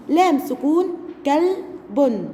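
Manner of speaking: كلب read slowly, lam joined to kaf; slow syllable reading. Shown as a demonstration. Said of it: "أنا هنا نطقت اللام مع الكاف".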